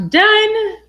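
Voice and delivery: high, loud triumphant "done"; excited done. Real, not acted. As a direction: exult at the finish. Watching the payoff happen.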